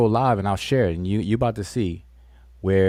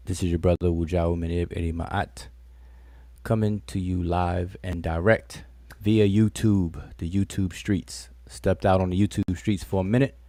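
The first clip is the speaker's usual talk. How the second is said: radio broadcaster voice. Acted. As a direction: lay it out like a late-night DJ. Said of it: "I sound like a radio, uh, broadcast person".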